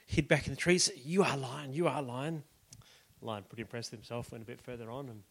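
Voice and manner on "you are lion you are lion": timid monkey. Acted. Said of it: "the monkey sort of timidly".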